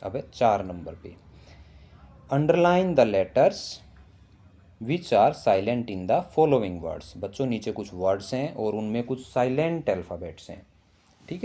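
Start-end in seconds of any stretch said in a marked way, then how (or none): 2.3-7.1 louder, higher and slow instruction read. Shown as a demonstration. Teacher reads the question aloud slowly and loudly to children. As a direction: spell it out slowly for the class. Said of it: "teacher reading instruction slowly".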